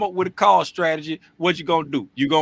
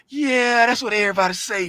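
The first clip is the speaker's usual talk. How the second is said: mocking grumble; 5 semitones higher than usual. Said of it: "you was like".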